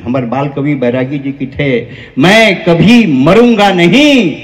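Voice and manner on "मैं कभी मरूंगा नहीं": slow, ringing verse line; drawn-out, emphatic declamation; emphatic recitation. Real, not acted. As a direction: declaim it slowly with force.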